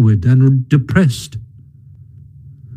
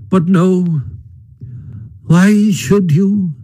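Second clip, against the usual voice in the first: feeble Toad; 6 semitones higher, slower than usual. Acted. Toad's feeble voice.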